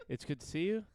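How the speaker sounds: solemn condolence voice; mock funeral tone. Friend greets Mama Bear as if at a funeral, solemnly. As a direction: greet her like a mourner. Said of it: "You said that like it was a funeral".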